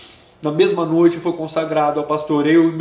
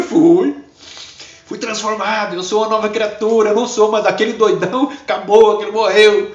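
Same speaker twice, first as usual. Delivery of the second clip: higher and louder, proclaiming; triumphant declaration; 6 semitones higher, 5 dB louder than usual. Retold or imitated. Silas declaring to the girl he is reborn, triumphant. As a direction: proclaim the new life with fervor.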